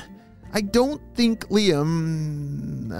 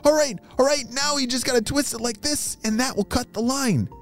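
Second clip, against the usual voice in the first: friend fish voice; 13 semitones higher than usual. Acted. Friend gives advice, character voice.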